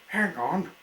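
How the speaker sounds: high, loud call. A narrator's reading. Engine calling to her carried-off friend, high and loud. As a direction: shout across to him. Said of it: "called to her friend".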